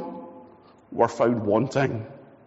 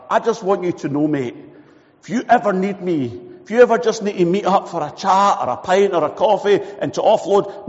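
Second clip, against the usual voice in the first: caring mate; 3 dB louder than usual. Acted. Preacher voices caring mate.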